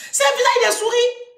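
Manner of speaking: high, loud playful insistence; emphatic insistence. Acted. Mother insisting her daughter looks like a mouse, high and loud. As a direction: jump it up loud to make the point.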